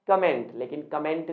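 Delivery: "कमेंट" as ka-ment; wrong pronunciation. Shown as a demonstration. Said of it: "pronunciation भी हमारा गलत है". ("कमेंट" को क-मेंट बोलें)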